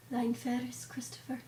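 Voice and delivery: soft, solemn mock-Tolkien delivery; hushed movie whisper. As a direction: imitate a hushed fantasy character. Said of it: "Why did everyone whisper?".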